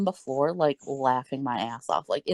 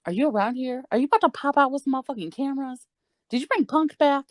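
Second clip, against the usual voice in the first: mock disbelief; 9 semitones higher, faster than usual. Acting out disbelief, looking for cameras.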